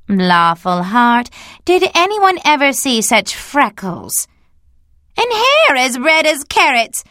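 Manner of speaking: gasping at freckles, high; scandalized neighbor exclaiming; astonished gossip. A narrator's reading. Rachel exclaims over Anne's looks.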